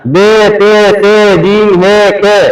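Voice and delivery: बे, ते, से, जीम, हे, खे recited the Urdu way, not Arabic; name the letters बे ते से जीम हे खे in plain Urdu sounds; Urdu-style letter names. Shown as a demonstration. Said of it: "ये उर्दू है". (उर्दू लहजे में हरूफ के नाम)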